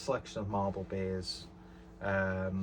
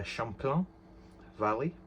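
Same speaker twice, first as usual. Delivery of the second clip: put-on terrible French accent; 3 semitones higher than usual. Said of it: "so I said it in a terrible French accent".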